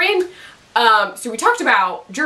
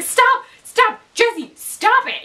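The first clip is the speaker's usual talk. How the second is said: much higher, urgent cry to stop; angry; 13 semitones higher, much slower than usual. Retold or imitated. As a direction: yell at him to quit, higher and drawn out. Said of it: "And she's, like, pissed".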